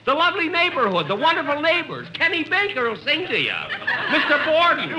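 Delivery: pleading. Acted. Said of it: "Stop squeezing my arm".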